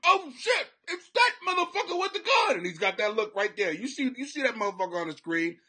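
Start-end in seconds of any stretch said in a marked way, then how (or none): 0.0-2.6 high, loud, comic panic; high-pitched mock alarm; talking deer. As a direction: squeal it as a terrified talking deer. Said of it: "they actually talk words".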